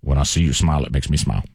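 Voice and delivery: put-on low crooning old man. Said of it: "that should be a song".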